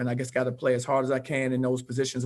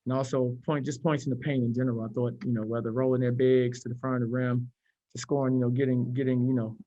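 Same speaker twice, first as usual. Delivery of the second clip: muffled behind a face mask; talking through a mask. Real, not acted. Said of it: "Can you guys hear me through the mask?".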